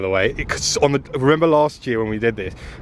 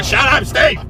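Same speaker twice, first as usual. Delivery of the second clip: shout; 11 semitones higher, 5 dB louder than usual. Real, not acted. Teasing shout at friend.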